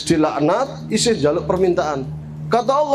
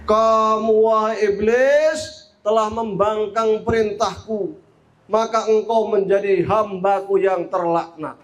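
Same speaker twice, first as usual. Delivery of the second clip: slow, drawn-out stern pronouncement; a touch of solemn wrath; wrathful divine rebuke; slower than usual. Acted. God curses disobedient Iblis, wrathful. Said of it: "Allah murka".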